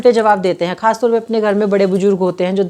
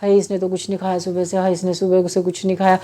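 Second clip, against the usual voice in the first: softer, imitating a mother's fretful moaning; mock lament; 3 semitones lower, 5 dB quieter than usual. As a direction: quietly wail hai over the uneaten food. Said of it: "फिर उसकी माँ ऐसे कलपती रही बीच में".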